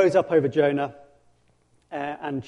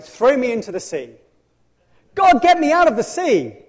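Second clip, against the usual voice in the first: loud, high, overwrought cry; melodramatic despair; 9 semitones higher, 8 dB louder than usual. Acted. Jonah demanding to be thrown overboard, loud melodramatic wail. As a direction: wail it like a drama queen. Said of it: "he's got some kind of crazy death wish".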